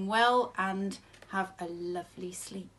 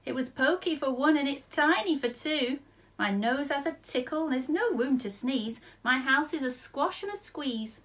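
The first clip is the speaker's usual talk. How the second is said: put-on high, louder, distressed old lady; fretting old lady; 6 semitones higher, 3 dB louder than usual. A narrator's reading. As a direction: cry out in a high fretful voice. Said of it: "The little old lady cried".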